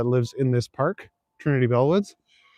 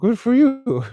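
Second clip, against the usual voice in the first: mock praise; 10 semitones higher, 4 dB louder, slower than usual. Real, not acted. Mocking reply to chat joke.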